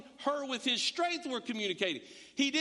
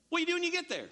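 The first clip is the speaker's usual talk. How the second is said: higher, pressing mock question; exasperated questioner; 8 semitones higher, much faster than usual. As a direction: push the question up in disbelief. Acting out questioning a churchgoer.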